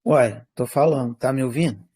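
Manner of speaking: robotic, glitchy call audio; choppy robotic line. Real, not acted. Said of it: "ainda tá um pouquinho robótica".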